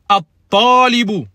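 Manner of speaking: at-talibu said slowly with a doubled t; slow model pronunciation. Shown as a demonstration. Teacher slowly models at-talibu for students. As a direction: stretch out at-talibu, the t held. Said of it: "Il y a une shadda sur le ta".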